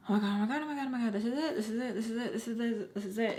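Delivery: rapid-fire panicked chant, acted out; freaking out. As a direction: replay a spiralling inner panic. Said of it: "because I was freaking the".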